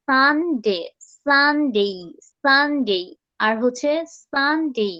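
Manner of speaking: "সানডে" said as a drawn-out model word; American pronunciation. Shown as a demonstration. Teacher showing students the American way, drawn-out model pronunciation. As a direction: model "সানডে" with a long, gliding final "ডে". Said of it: "আমি যেটা শিখাচ্ছি সেটাও তোমাদেরকে American শিখাচ্ছি".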